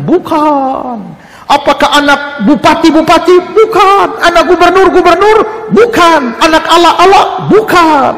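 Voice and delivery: rising call and response, building to a shout; audience shouting back. Retold or imitated. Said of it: "Mereka bilang".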